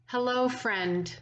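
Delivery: mild imitation of a friend's tender welcome; embracing warm greeting. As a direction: greet a dear friend gently, like a summer breeze. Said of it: "said in that way that embraces and enfolds".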